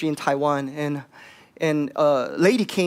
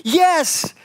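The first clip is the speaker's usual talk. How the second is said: louder, higher, slow indignant outburst; angry; 4 semitones higher, 4 dB louder, much slower than usual. Retold or imitated. Woman at the healing line, angrily refusing. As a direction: let the old hurt burst out. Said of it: "and she got really angry".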